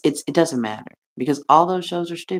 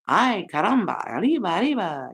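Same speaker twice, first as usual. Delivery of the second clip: mock Mexican accent; 2 semitones higher than usual. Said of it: "I was born in Mexico, I would probably be going".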